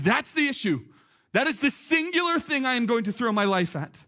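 impassioned retold proclamation; resolute declaration. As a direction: act out standing up for a cause. Acts out heroes standing up declaring.

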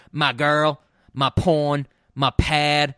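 a loud, mocking imitation of Don John's Jersey accent. Host mocking Joseph Gordon-Levitt's Jersey accent. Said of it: "him doing that accent?".

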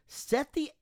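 mock-heroic slow command; grand declaration. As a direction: proclaim it like a battle order. Telling manager to burn bridge.

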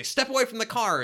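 stern machine warning, a touch robotic; car alarm voice. Retold or imitated. Talking car alarm warning robbers off, mock robotic. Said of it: "they say".

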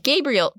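"Gabriel" said the English way, GAY-bree-el. Retold or imitated. The narrator retelling the name switch, saying Gabriel the English way. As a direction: stress the first syllable of "Gabriel". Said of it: "So she was like".

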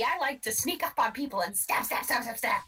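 creepy little goblin voice. Acted. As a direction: sneer it like a sneaky goblin. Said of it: "I do not want your goblin voice".

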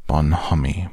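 a donkey's weary French word; gloomy. Acted. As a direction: say the word as if it tasted sour. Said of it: "went on Eeyore gloomily".

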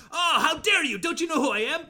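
loud, high mock outrage; hammed-up affronted cry; indignant outburst. Witch confronting the invading dogs, mock indignation. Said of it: "she's like".

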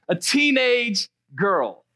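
slow, chuckling echo of the punchline; rueful laugh through the words; laughing repeat. Real, not acted. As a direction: let the laugh carry it, unbelieving.

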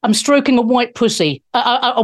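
a sinister Bond-villain hello; mock Schwab greeting; Klaus Schwab impression. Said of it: "I'll do an impression of Klaus Schwab".

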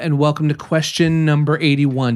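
booming podcast host announcer; big radio intro voice. Acted. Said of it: "when you have your announcer voice on".

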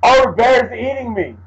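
high panicked yelp; mock panic. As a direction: squeal as the bear bites. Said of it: "He was like".

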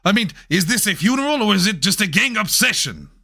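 indignant, badly faked Mexican accent; terrible Mexican accent. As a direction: protest in a hammed-up Mexican accent. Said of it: "meant to be a terrible Mexican accent".

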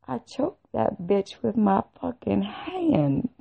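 slow, smug comeback building toward a laugh; gleeful retort. Retold or imitated. Telling the nurse about the choking, gleeful retort.

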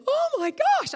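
high, loud wail of dismay; re-enacted cry of horror at oneself; horrified, tearful outburst. Preacher retells falling on her knees, horrified tearful outburst. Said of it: "I burst into tears".

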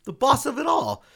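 excited. Retold or imitated. Fan reacting to the studio boss appearing, excited squeal. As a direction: gush like a thrilled fan. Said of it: "And I was like".

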